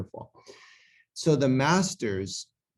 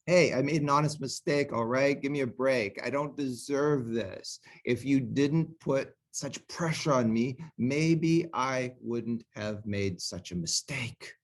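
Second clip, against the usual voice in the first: husband getting angry; 3 semitones higher than usual. Acted. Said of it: "now he's getting really angry".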